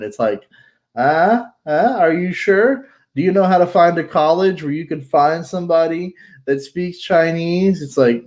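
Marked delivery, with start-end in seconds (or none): 1.0-7.8 higher-pitched, incredulous run of questions; mock puzzled questioning. Newcomer to China quizzed on finding help, mock puzzled questioning. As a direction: act out a doubtful, puzzled reply. Acted exchange seeking a Chinese helper.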